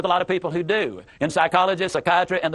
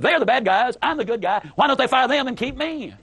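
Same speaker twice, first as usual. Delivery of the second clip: self-righteous; 6 semitones higher than usual. Retold or imitated. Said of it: "The inflection in her voice clearly said".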